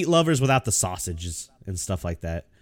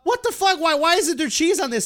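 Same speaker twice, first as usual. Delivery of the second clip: retold complaint; 13 semitones higher than usual. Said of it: "and I was like".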